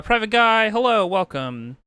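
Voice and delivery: a big, slow hello to a newcomer; drawn-out greeting. Real, not acted. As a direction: stretch it out like a host.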